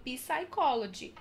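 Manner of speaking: psychology said as p-sychology; p sounded. Shown as a demonstration. Teacher showing the wrong psychology. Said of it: "Muita gente fala".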